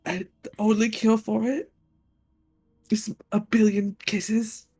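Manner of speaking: very solemn. Acted. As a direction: pause gravely before naming the cure. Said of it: "very seriously, very solemnly".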